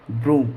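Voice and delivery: lengthened vowel in ब्रूम; ब्रूम read out as a model word; long oo. Shown as a demonstration. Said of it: "double ओ का उच्चारण करेंगे".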